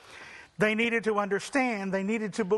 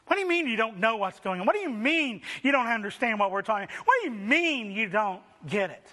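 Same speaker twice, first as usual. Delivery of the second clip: incredulous; faster than usual. Acted. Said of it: "they're incredulous".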